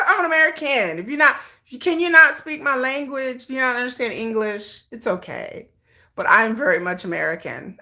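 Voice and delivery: badly faked African accent. Telling viewers she is American, horrible African accent. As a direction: put on a joking African accent. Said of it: "horrible African accent".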